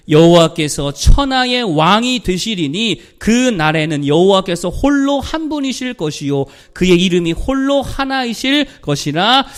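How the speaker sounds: slow, loud, measured recitation; scripture reading. Real, not acted. Preacher reads the verse together with congregation, loud scripture recitation. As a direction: lead the congregation through the verse, slowly.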